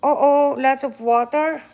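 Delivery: excited oh oh; surprised. Real, not acted. Parent's exaggerated surprise.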